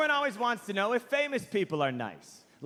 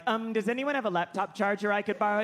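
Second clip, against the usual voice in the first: meek polite asking; faster than usual. Retold or imitated. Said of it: "that bullshit way we all have to talk".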